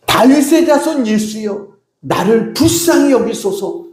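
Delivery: mock shout, high-pitched and drawn out; crying out for mercy. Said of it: "크게 소리 지르기 시작합니다".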